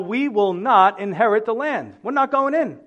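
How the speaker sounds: the tribes flatly refusing the Lord, defiant and loud; emphatic refusal. Retold or imitated. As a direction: dig in and refuse outright. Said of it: "It's emphatic".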